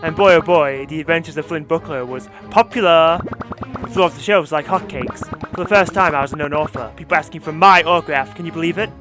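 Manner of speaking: smug corporate villainess. Acted. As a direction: purr it out like a smug CEO. Villain resumes boasting.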